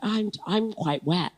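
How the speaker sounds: hammed-up sexy come-on; tryhard sexy. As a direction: drag it out like a clumsy attempt at seduction. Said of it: "trying to be real sexy".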